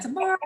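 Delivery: Tamara said tuh-MAR-uh; stress on second syllable. Shown as a demonstration. Speaker explaining a mix-up with friends' names, Tamara as tuh-MAR-uh. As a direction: lean on the middle AH of Tamara. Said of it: "I get it mixed up".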